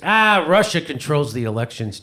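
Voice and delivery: lightly voiced brother, matter-of-fact; imitating brother. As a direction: state it as if it were obvious. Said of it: "He goes".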